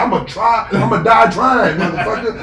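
defiant comeback in a playful retelling; mock defiance. Comic retelling of his reply to her, mock defiance. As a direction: imitate a man boldly answering a threat. Acts out the man's defiant answer.

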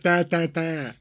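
nonsense "da, da" in a mock Boston accent; wordless Boston-accent babble; mimicked Boston chatter. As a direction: imitate relatives' accent with nonsense syllables. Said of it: "three days of".

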